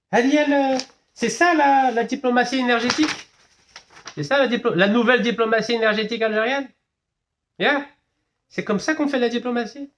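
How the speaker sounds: high, incredulous challenge; high-pitched, scandalised questions; indignant questioning. Real, not acted. Indignant rhetorical questions about diplomacy.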